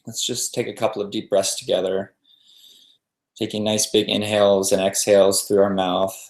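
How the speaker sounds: calm meditation guide with long pauses between phrases; even, settled voice leaving room to breathe; guided meditation. Real, not acted.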